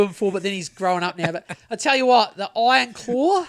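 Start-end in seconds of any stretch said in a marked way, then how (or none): 2.4-3.4 the voice breaks on "Claw" as the pitch rises; voice cracking. Real, not acted. Recommending a movie to his co-host, voice cracking. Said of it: "why did my voice just break?".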